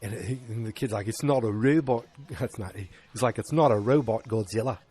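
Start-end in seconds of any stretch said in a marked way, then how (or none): 1.1-2.1 attempted New Zealand accent; playful stab at a New Zealand accent. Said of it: "That's my New Zealand accent". 3.4-4.8 attempted New Zealand accent; amateur New Zealand twang. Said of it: "That's my New Zealand accent".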